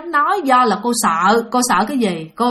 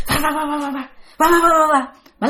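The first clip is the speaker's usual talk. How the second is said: rapid-fire stuttered syllables; imitated plucking noise; 4 semitones higher, faster than usual. Showing how fast she plucked the chicken, imitated noise. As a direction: make a quick repeated ripping sound.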